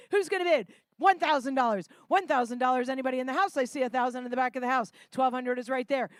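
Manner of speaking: brisk auction calling; auctioneer. Acted. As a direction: call the bids like an auctioneer. Live charity auction calling.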